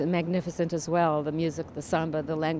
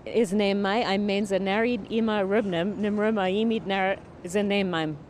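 talking backwards. Shown as a demonstration. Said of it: "I talk backwards".

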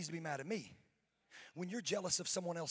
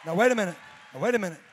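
sudden call to attention; 15 dB louder, much faster than usual. Real, not acted. Pastor stops the crowd.

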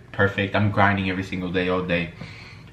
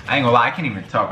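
talking through food; mouth full; much faster than usual. Real, not acted. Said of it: "I'm trying to enjoy my food".

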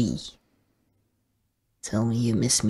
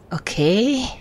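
whisper; 7 semitones higher, 3 dB louder than usual. Acted. Whispering to game character.

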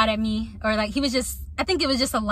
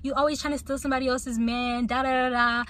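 mock cussing out; 3 semitones higher than usual. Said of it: "cussing me out".

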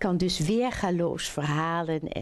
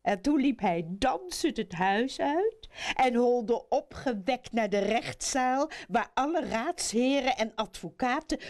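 put-on lively children's storytelling; animated fairy-tale narrator; story narration; 4 semitones higher than usual. A narrator's reading. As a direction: read it to children with rising, swinging lines.

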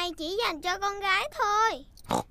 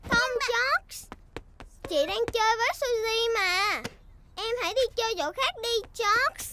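shooing brother away; 3 semitones higher than usual. Acted. Big sister telling George to go play elsewhere, impatiently. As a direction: brush him off bossily.

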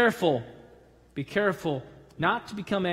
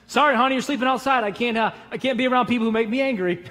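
mock husband; 4 semitones higher, 4 dB louder, faster than usual. Joking husband to wife.

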